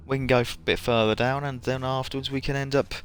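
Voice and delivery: lightly put-on Aussie; Australian accent. Koala inviting a mate for eucalyptus, light Australian accent. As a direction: have a loose go at Australian. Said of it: "not the best Australian accent".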